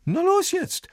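high, loud snapped command; barked order. A narrator's reading. Copyist barks an order at Sven. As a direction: bark it at him. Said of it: "herrscht ihn der Mann an".

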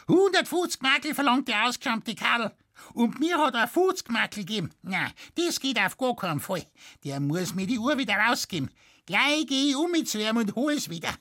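put-on high, indignant old woman rant; outraged old woman. A narrator's reading. Widow furious at the blacksmith's price, high indignant rant.

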